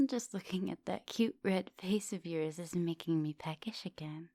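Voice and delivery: soft close whisper, right by the ear; intimate whisper. Acted. Vampire whispers to her student, soft close whisper. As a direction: breathe the words close and hungry.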